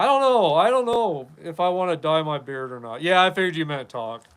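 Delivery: ordinary delivery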